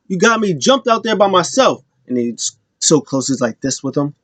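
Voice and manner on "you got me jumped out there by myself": mock heated complaint. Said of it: "comes in mad heated".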